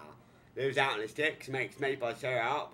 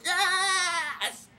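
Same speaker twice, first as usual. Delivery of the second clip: high, loud cry of yes; a high, loud shocked father's cry; pained yell; 7 dB louder than usual. Retold or imitated. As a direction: yelp it out in shock. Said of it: "His father looks down and goes".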